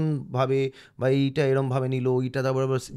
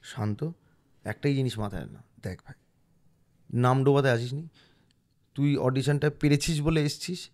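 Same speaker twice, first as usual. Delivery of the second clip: calming self talk. Retold or imitated. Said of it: "আবার scene ধরলাম".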